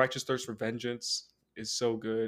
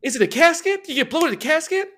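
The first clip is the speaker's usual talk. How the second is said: high, loud hammy hero voice; goofy cartoon hero puzzling; Batman voice; 11 dB louder than usual. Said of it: "Robin, what are you talking about".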